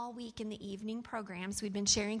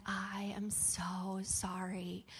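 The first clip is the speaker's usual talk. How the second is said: tearful apology; 3 semitones lower, 6 dB quieter, much slower than usual. Retold or imitated. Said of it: "tears just were running down his face".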